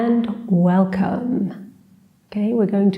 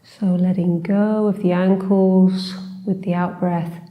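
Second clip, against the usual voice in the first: unhurried meditation guide, long pauses between phrases; guided meditation. Acted. Teacher leading a short seated body scan, calm guided meditation. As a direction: gently guide them through a body scan, leaving space.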